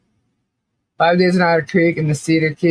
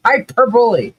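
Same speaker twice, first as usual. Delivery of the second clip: laughing through it; 6 semitones higher than usual. Shown as a demonstration. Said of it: "Accent on second syllable".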